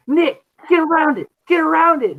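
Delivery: high-pitched mock urgent command; retold urgent order. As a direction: urgently order him around, as in a lively retelling. Retold urgent order during pig hunt.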